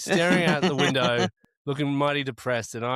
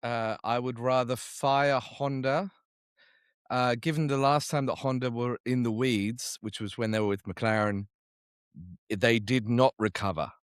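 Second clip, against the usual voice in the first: serious mode; 2 semitones lower than usual. Real, not acted. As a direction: answer it dead seriously. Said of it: "He's gone to serious mode straight away".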